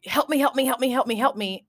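clingy plea. Retold or imitated. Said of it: "very much sucked onto you".

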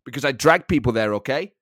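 confrontational German manager impression; mock threat in German-accented English; comic hard man manager; Thomas Frank. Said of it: "he can be very confrontational".

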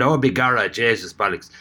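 mocking a bad stage Irish accent; a hint of a fake Irish brogue. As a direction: lightly do a terrible TV Irish accent. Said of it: "unbearable to my Irish ears".

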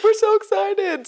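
high-pitched, drawn-out mock gushing; imitated excitement. Delighted customers answer their server, imitated excitement. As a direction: gush slowly, way up high, as the customers.

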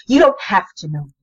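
quiet, controlled anger sinking toward a whisper; understated anger. Acted. Marie turns on her friend, quietly angry. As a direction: let restrained anger drop away to a near-whisper. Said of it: "anger flashing in her eyes".

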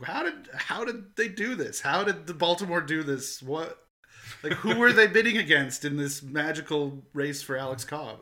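incredulous. Retold or imitated. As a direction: act out their baffled questioning. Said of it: "just incredulous".

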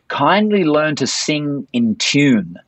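slow, drawn-out put-down; mock-stern talent show judge; scathing judge. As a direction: deliver a withering verdict slowly. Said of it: "a really scathing judge".

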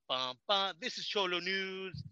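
slow, drawn-out anchorman intro; slow mock newscaster sign-on; mock news anchor. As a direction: announce the station like a TV anchor. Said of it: "I'll go like".

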